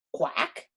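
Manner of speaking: breathy little quack; a soft, breathy duck quack. Acted. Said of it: "said Jemima Puddle Duck".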